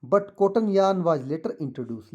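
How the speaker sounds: slow, deliberate read-aloud for pupils; teacher reading the textbook passage. Shown as a demonstration. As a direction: read it out slowly so the class can follow. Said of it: "तो मैं पढ़ता हूँ इसको".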